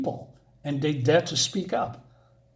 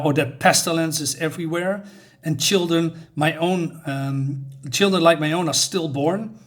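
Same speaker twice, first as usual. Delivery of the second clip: bold rebuke; 3 dB louder than usual. Retold or imitated. Mother rebukes the elf who cursed her husband, with a mild bold indignation. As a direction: build from reproach to an indignant demand. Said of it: "says something really bold".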